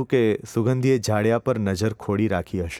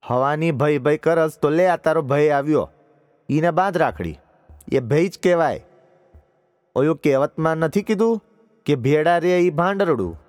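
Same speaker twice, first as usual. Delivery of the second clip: higher, louder village aunt in dialect; scornful old aunt; 6 semitones higher, 4 dB louder than usual. Acted. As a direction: snap at the crying girl with distaste. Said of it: "બોલી ઉઠ્યા".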